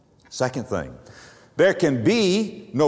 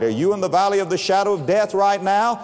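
normal talking voice

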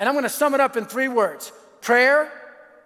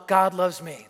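low, lightly voiced five-year-old reciting; child's simple recital; 5 semitones lower, slower than usual. Son reciting the gospel to a lady, lightly voiced child's recital. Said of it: "in a five-year-old way".

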